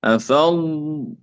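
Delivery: أفضت very slowly, ض stretched before ت; slow أفضت with a drawn-out ض; lengthened dad. Shown as a demonstration. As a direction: hold the ض of أفضت long, then a separate ت. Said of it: "مع الاستطالة".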